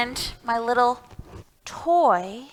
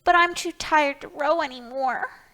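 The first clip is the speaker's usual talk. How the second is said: tired little pig; 4 semitones higher than usual. Acted. Small Pig voiced, tired.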